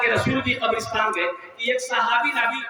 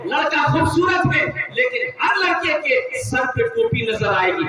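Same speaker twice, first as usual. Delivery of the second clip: preaching; 3 semitones higher, 3 dB louder than usual. Acted. Preacher declaims a list of cities.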